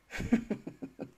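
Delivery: breathy, voiceless laugh; soft chuckle. Real, not acted. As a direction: laugh quietly to herself. Joking with live viewers.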